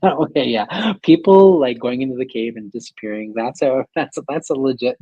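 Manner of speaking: high, hammed-up haunting voice, laughing through it; mock ghost voice. Storyteller voicing a ghost who'll haunt the land, mock spooky. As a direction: play the indignant old ghost, half laughing. Acting out spirit's voice in jest.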